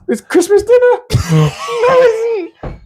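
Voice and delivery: high, giggling through words; laughing. Real, not acted. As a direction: crack up mid-sentence. Laughing at own joke.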